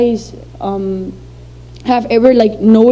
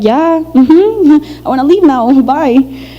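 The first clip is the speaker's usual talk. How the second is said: laughing nervously; 3 semitones higher, slower than usual. Retold or imitated. Child fleeing awkward question.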